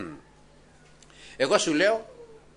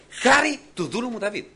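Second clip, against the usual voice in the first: proclaiming God; 9 semitones higher, 4 dB louder than usual. Retold or imitated. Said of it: "λέει ο Θεός".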